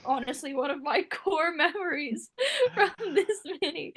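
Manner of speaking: laughing through the words; amused laughter. Real, not acted. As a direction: break into real laughs while reminiscing. Laughing over a funny shared memory.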